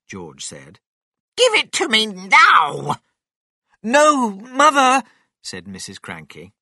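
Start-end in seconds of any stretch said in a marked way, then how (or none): 1.4-3.0 loud, high-pitched bossy order; demanding grandma. A narrator's reading. Grandma insists on George's cup, demanding loudly. 3.8-5.1 loud, high, slow objection; alarmed protest. A narrator's reading. Missus Cranky stops her mother drinking, protesting loudly.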